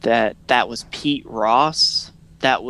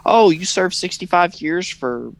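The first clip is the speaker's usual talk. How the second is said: a hammed-up hiring manager, pitched up; mock boss hiring; 6 semitones higher than usual. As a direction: play a careless boss welcoming an ex-con. Mock Waffle House hiring.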